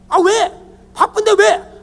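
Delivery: loud, high irritated phone answer; mock brusque snapping. Spouse answering husband's phone while busy, mock irritated snapping. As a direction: imitate an annoyed, too-busy spouse. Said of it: "목사를 그렇게 과격하게 대하고".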